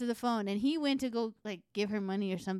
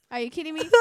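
high but less loud disbelief; milder outraged repeat; 6 semitones higher, 3 dB louder, much faster than usual. Retold or imitated. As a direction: repeat it, calming a bit. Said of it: "So I was fucking mad".

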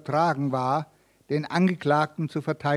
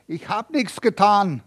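strained, squeezed-out words; pressed out with effort; 4 semitones higher than usual. Acted. Accused Michael to the judge, pressed out with effort. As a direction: force the denial out with effort. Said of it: "presste Michael mühsam hervor".

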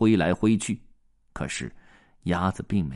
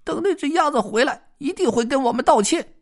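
much higher, fast squirrel grumble; grumbling squirrel; 5 dB louder, faster than usual. Acted. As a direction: grumble like a sulky little squirrel. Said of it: "他们嘟囔着".

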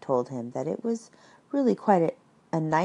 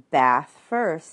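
cheerful; 6 dB louder than usual. Acted. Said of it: "in a cheerful voice".

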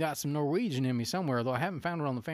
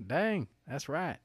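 put-on Southern accent; 2 semitones higher, slower than usual. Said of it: "we can do these accents".

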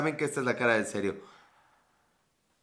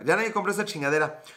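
slightly higher, faster mock griping; fed-up shopkeeper; 4 semitones higher, faster than usual. Shop owner repeating his complaint, quick and mock annoyed. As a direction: rattle off the complaint like a fed-up seller. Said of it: "lo que hacen es de".

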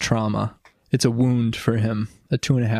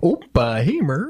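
put-on Midwestern accent. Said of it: "This is my Midwestern accent".

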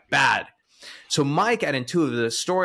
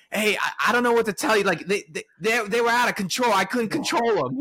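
high, fast Philadelphia accent impression; imitating Philly accent; 9 semitones higher than usual. Mike telling the accountant the surgeons ran wild, in a high Philly accent. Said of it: "this is probably a bad accent".

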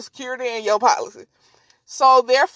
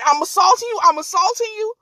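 higher, insistent repeated taunt; mock indignant taunt; 5 semitones higher than usual. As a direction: imitate her needling him with the question. Woman repeats challenge while smacking.

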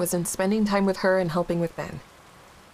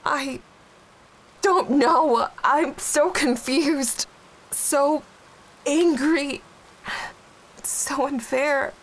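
confused, shaky grief; 4 semitones higher, slower than usual. Acted. Grieving widow torn and confused.

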